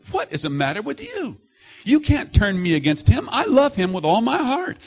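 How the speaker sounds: loud high pleading father; dad shouting at his sons. Retold or imitated. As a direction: shout your love at the boy. Father scolding both sons.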